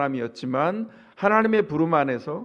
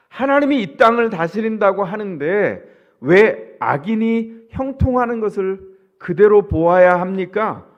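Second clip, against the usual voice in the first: slow, louder, raised protest; protesting to God; 3 semitones higher, 4 dB louder than usual. Retold or imitated. Jeremiah protests to God about the wicked, slow loud protest. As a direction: press God with a hurt, insistent complaint. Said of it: "이렇게 항의하고 있는 겁니다".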